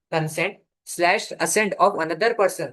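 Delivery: reads the definition word by word, very slowly; slow dictation. Shown as a demonstration. Law teacher dictating a definition to students, very slow.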